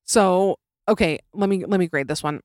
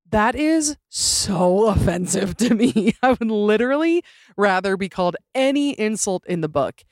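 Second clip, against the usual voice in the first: higher, laughing through the words; laughing disbelief; 5 semitones higher, 3 dB louder than usual. Real, not acted. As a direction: laugh in disbelief while saying it. Laughing at offensive phrase.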